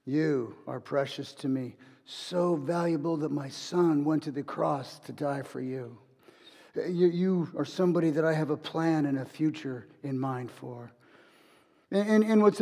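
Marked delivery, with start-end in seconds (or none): 0.1-10.9 hushed, tender words, fading at the end; tender whisper, imitated. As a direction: gently reassure them, as God speaking into an ear. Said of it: "he whispers into your ear".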